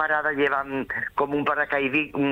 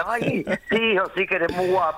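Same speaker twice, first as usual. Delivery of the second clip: higher, lightly voiced doting lady; flirty lady fan; 6 semitones higher than usual. The fan tells Rafa he is handsome, a light higher mock coo.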